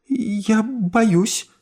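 put-on hushed, high girl voice; admitting fear. Emily confesses to her aunt she is afraid, hushed. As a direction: confess it softly. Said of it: "призналась Эмили".

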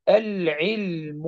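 العلم very slowly, lam sounded clearly before the ع; clear lam demo. Shown as a demonstration. Teacher showing the clear lam before ayn, very slow. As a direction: stretch out العلم with a distinct lam. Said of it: "نأخذ العين".

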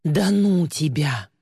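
slow, groaning protest; mild groan. Acted. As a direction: drag it out with a light groan. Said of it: "простонала Ли".

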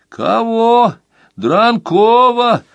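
high woman's voice, slow on Дранкова; woman on the phone. Acted. Receptionist answering a long-distance call, in a high woman's voice.

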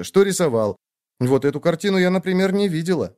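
a caring sister who won't take no; bossy little sister. Acted. Sister insisting, then curious.

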